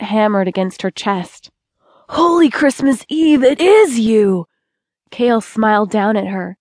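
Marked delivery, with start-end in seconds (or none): 2.1-4.5 higher and louder with glad surprise, then slowing; startled joy at spotting an old friend; exclaiming in happy recognition; surprised delight. Acted. Cale recognizes old friend Tora.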